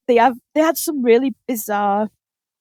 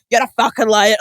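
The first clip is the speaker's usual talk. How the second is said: put-on louder accusing yell in another accent; mock angry shout; 5 dB louder than usual. Contestants accusing each other, mock shouting. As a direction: bark the accusation again. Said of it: "different accents shouting angrily".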